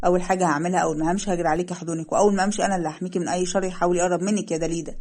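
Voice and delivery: tender promise. Acted. Leil promises his wife protection, softly tender. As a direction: promise to protect her, gently.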